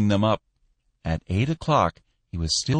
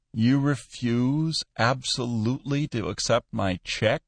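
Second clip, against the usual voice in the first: quavering; 3 semitones higher than usual. Acted. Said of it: "he quavered".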